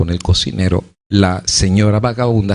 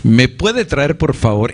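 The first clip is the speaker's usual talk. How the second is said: smug look, voiced; 4 semitones higher, slower than usual. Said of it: "una mirada así de".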